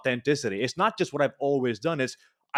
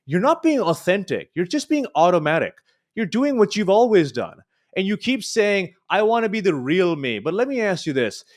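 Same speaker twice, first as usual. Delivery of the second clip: frustrated; 4 semitones higher than usual. Retold or imitated. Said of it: "my instructor got so frustrated with me".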